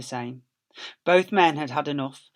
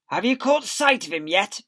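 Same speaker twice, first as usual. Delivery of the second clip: raised call across the field; calling back; 6 semitones higher, 5 dB louder than usual. Acted. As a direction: call out over the noise. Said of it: "Bean called back".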